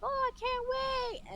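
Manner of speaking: high-pitched excited squeal of words, imitated; retold high, eager gush; eager anticipation. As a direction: mimic someone giddy with anticipation. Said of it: "looking forward to it".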